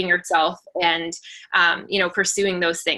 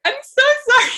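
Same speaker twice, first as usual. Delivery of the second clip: mock sobbing pitched much higher and louder; imitating sobbing; 6 dB louder, faster than usual. Speaker retelling her live video, imitating sobbing. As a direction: replay the tearful apology, half-hearted. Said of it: "sobbing on the live".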